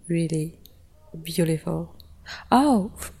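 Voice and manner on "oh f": sudden high exclamation of realisation; sudden surprise. Real, not acted. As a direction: blurt it out as it comes back to you. Suddenly remembers something forgotten.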